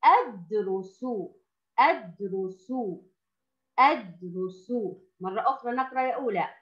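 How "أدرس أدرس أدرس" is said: أدرس very slow at first; model reading. Shown as a demonstration. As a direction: stretch أدرس for beginners. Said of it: "الكلمة الرابعة". (قراءة بطيئة لكلمة أدرس)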